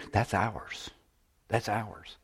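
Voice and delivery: soft, near-whispered emphasis; hushed emphasis. Real, not acted. Preacher telling the church whose work it is, hushed. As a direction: drop right down and let it land.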